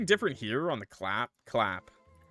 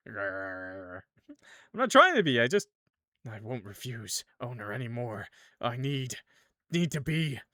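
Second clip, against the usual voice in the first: a touch of tearful pleading; mild mock sob; sobbing clown. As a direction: fight back tears as the clown. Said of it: "it starts sobbing".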